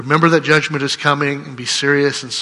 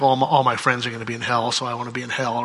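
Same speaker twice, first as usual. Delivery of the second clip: fast, sneering mock sarcasm, dropping softer; snarky quote; 2 semitones lower, 4 dB quieter, faster than usual. Preacher mimicking a snarky unbeliever, fast sneer. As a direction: toss it off like a smug skeptic. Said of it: "you get the snarky thing like".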